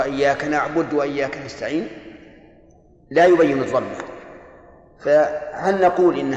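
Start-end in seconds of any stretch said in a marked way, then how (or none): 0.0-1.9 نعبد ending without a clear damma; clipped-vowel recitation; unclear damma demo. Shown as a demonstration. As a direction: read نستعين and نعبد with the vowel swallowed. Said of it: "إذا سمعته يقرأ".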